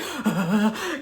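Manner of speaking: demonstrated shaky, dried-up throat noise; choked-up gasping. Shown as a demonstration. Showing how anger hits the voice, with choked gasps. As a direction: imitate a voice seizing up from anger. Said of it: "my throat dries up and my voice".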